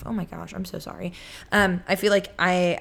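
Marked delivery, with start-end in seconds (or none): 0.0-1.1 hushed, embarrassed whisper; sheepish whispered apology. Real, not acted. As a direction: whisper a quick sorry to the listeners. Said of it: "Why does my Siri keep going off?".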